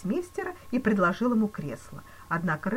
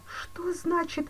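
slow whispered moan; 13 semitones higher, much slower than usual. A narrator's reading. Banker moaning in horror, whispered. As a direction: gasp it out in horror. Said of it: "простонал Зюдерланд".

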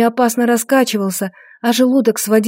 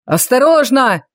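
warning shout; 2 semitones higher, slower than usual. Acted. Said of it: "крикнул кто-то из гвардейцев".

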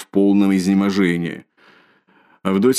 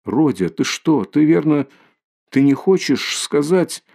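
higher, slower, startled plea; alarmed mother; 7 semitones higher than usual. A narrator's reading. Mother frightened by her son's words, alarmed and higher. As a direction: fearfully, pitch rising as she pleads. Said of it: "Начала было в испуге".

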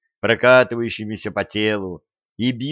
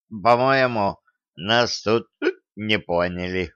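a hint of drunken hiccuping; drunk with hiccups. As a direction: hiccup it out tipsily. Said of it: "пьяно икнул Кощей".

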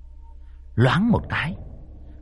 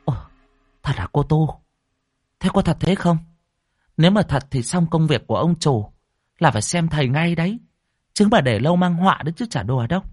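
pressing questions; 6 semitones higher, faster than usual. Acted. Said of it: "ngồi hỏi dồn".

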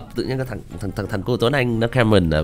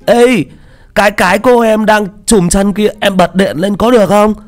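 much higher, louder, naive chubby guy; giọng Tiểu Mã; 12 semitones higher, 6 dB louder than usual. Shown as a demonstration. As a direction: sound like a cute, clueless fat kid. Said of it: "nó hơi ngây ngô một chút". (giọng cao, to, ngây ngô đáng yêu)

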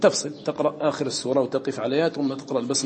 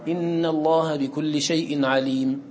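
slow, drawn-out Quranic recitation; recited with a full stop; much slower than usual. Shown as a demonstration. Teacher demonstrates waqf before Bara'a, slow recitation. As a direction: chant it slowly and stop to breathe. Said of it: "تنفس الوقف".

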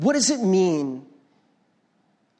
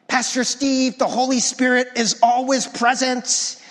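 a touch higher, mock-whiny objector; lightly mock the know-it-all critic; 4 semitones higher than usual. Pastor mimics a critic correcting him, mild mocking whine. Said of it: "I did that mocking voice".

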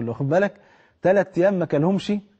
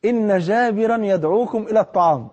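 raised, slow call across the trench; calling out to the camp; 5 semitones higher than usual. A narrator's reading. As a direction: call everyone to the meal from afar. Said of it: "واقف ومنادي". (نداء عالٍ بطيء لأهل الخندق)

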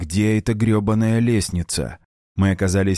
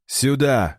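sharp raised call; barked order; 5 semitones higher than usual. Acted. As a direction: bark the order. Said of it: "рявкнул я".

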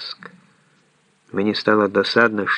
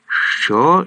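higher, incensed challenge; fierce snarl; 6 semitones higher, 4 dB louder than usual. A narrator's reading. Leon rounds on the man threatening him, fiercely. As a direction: throw it back as an angry question. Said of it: "люто вишкірився Леон".

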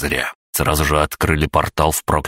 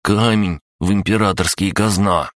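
snappy clicking crab; 5 semitones higher than usual. Acted. Crab gnome voiced, glum.

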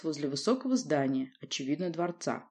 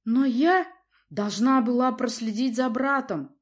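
louder, higher cutting reply; curt retort; 6 semitones higher, 6 dB louder than usual. A narrator's reading. Prince cuts his daughter off, curt. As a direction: snap the sentence short. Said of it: "отрезал князь".

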